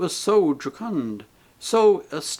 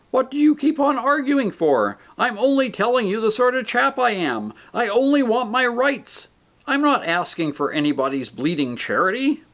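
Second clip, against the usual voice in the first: much higher, louder furious rant; outraged ghost; 10 semitones higher, 4 dB louder than usual. A narrator's reading. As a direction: spit out bloody murderer. Voices the big ghost.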